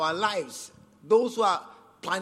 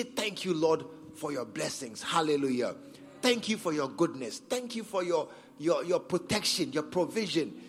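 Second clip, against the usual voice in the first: softer, lower prayer of gratitude; sincere, heartfelt thanks; 4 semitones lower, 4 dB quieter than usual. Shown as a demonstration. Preacher showing congregation how to thank God from the heart, softly sincere. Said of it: "coming from your heart sincerely".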